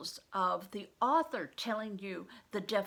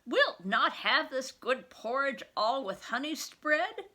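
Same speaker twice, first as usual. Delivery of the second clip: put-on high, louder coaxing old nurse; 5 semitones higher, 6 dB louder than usual. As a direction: coax the sick boy to eat. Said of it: "Ellen's coaxing voice".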